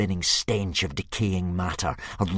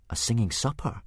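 put-on higher startled boy echo; Hiccup, startled; 4 semitones higher than usual. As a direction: echo it back, alarmed. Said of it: "echoed Hiccup".

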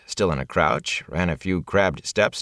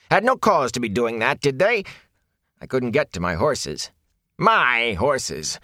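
aggrieved peddler; 5 semitones higher than usual. Acted. Peddler complaining.

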